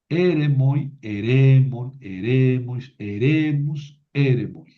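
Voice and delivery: "eremoi" stressed at the start, the middle forms "eremon, eremois, eremus" on the second syllable; shifting accent. Shown as a demonstration. Teacher reciting the plural to show where accent moves, shifting stress from "eremoi" to "eremon". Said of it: "tengo que mover el acento".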